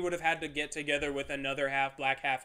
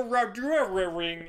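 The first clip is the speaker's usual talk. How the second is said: fake Asian accent; 2 semitones higher, much slower than usual. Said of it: "where they throw R's into everything".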